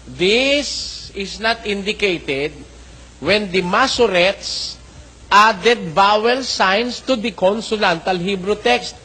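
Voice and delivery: slow, deliberate quote reading; careful recitation of a printed note; slow reading aloud. Acted. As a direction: spell out each word of the passage. Reads the translators' note aloud.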